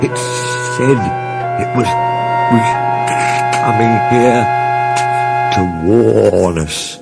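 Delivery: halting, broken scared words; stammering fright. A narrator's reading. Toby stammering about the ghost, halting and scared. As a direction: stumble over each word in terror. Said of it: "in a shaky voice".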